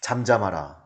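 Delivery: low, soft, unforceful command; understated hushing; mild non-rebuke. Shown as a demonstration. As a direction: say it too gently to be scolding. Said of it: "뭐 이거 아니라고".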